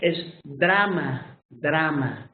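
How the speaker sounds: drama with a Spanish ah, slow. Shown as a demonstration. Teacher shows the Spanish pronunciation of drama. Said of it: "in Spanish".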